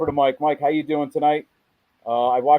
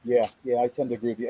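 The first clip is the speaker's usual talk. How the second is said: muffled, like a hand over the mouth; 2 semitones lower, 4 dB quieter, faster than usual. Real, not acted. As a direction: speak through a muffled mic. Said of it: "letting me know about the microphone".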